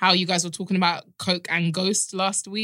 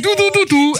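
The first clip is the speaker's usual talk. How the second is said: high, loud mimicked horn toots; imitated horn noises; 10 semitones higher, 6 dB louder than usual. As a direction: toot it out like vocal horns. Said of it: "Your hand was on your mouth doing".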